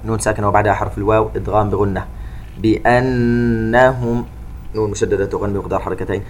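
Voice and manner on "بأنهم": slow chanted tajweed recitation with echoing qāf; Quran recitation. Shown as a demonstration. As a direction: recite slowly, bouncing the qāf. (تلاوة مرتلة ببطء مع قلقلة القاف)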